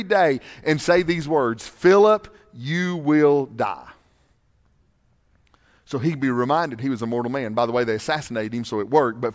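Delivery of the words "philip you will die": solemn servant's warning. Retold or imitated. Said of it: "commissions his servants to stand ... and say".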